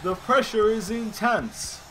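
loud, high hyped-up announcer; play-by-play hammed up, words punched and stretched; mock wrestling commentator. Commentator telling J R about the rivals, hammed-up announcer.

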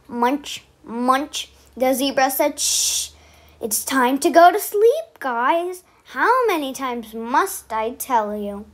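put-on lively storybook voice for kids; bedtime story reading. A narrator's reading. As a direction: read it out to little ones at bedtime.

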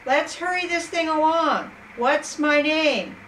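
impatient imp rushing the queen along; excited. Acted. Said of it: "The little man was excited and said".

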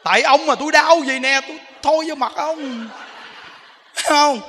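acting out a wife's loud, high-pitched outburst; angry wife in labour. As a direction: blame the husband, voice jumping up loud. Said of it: "bả tức". (giọng vợ tức giận, la lớn)

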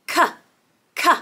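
short, clicked "K" sounds; letter-sound demo. Shown as a demonstration. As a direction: sound out "K" alone for the start of cow. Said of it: "Cow starts with the letter C".

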